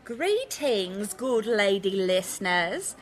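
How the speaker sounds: a light put-on British accent, tipsy pub swagger; mock British accent. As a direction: lightly fake a posh British lady. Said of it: "we've already got the bloody accents".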